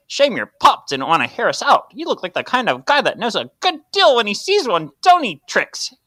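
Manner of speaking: hammy hardboiled noir tough guy; noir detective. Acted. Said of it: "sounds just like the Noir voice".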